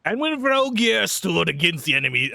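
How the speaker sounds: fable narration. Acted. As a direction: read it like a legend. Reading an old fable aloud.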